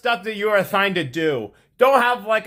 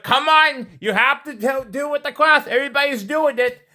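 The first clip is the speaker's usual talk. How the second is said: higher-pitched coaxing teacher; 4 semitones higher than usual. Retold or imitated. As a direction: imitate a teacher urging a student. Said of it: "The teacher's like".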